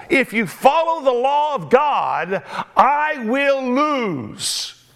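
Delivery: lightly voiced pleading widow; beg, slowing near the end. Preacher as the widow pleading with David not to enact the law, lightly. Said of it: "she's pleading with David".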